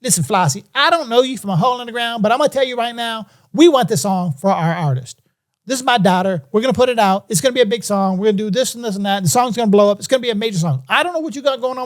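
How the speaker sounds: a hint of a confident record-label mom making an offer; imitating Kiki's mom. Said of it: "Kiki's mom goes".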